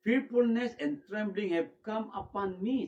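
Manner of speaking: dramatic reading. Acted. Dramatic scripture reading of fear.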